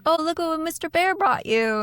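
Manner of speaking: high put-on voice, coaxing with a gift; coaxing husband. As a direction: imitate a husband sweet-talking his wife. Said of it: "So he's like".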